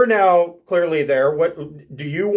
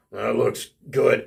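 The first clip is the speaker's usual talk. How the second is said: hungry barbarian; 6 semitones lower, 4 dB quieter than usual. Acted. Barbarian eyeing the elk with growling stomach, low and hungry. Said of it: "his stomach start to growl".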